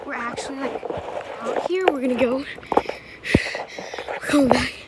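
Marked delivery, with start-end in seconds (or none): 1.4-4.7 panting between words; breathless from biking hard; out of breath. Real, not acted. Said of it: "I'm out of breath".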